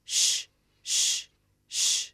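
breathy unvoiced shh, drawn out; whispered shush. Poet shushing the woman in her poem, whispered. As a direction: hush the listener like in a cinema.

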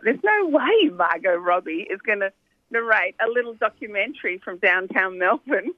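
mildly incredulous quoted thought; retold disbelief. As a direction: recall thinking it could never happen. Retelling the team's disbelief.

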